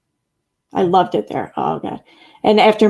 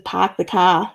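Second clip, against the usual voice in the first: put-on Massachusetts accent; slower than usual. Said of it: "that's Massachusetts".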